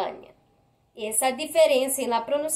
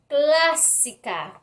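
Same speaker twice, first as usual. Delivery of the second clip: "Clásica" slowly, with weight on the opening "Clá"; stressed antepenultimate syllable; much slower than usual. Shown as a demonstration. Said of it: "antepenúltima sílaba de la palabra".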